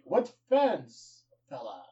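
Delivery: mock Irish brogue for Sheamus; a lightly put-on Irish accent. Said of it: "Irish accent".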